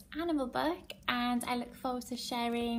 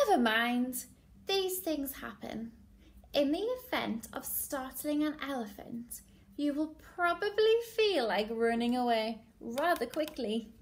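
lively, emphatic picture-book narration; story reading to children. Acted. Teacher reading a favourite animal book to class, animated storytelling. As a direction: read it to little ones, drawing out key words.

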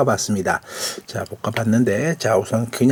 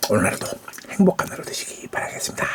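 whisper; 4 semitones lower, 6 dB quieter than usual. Real, not acted. Whispered sign-off.

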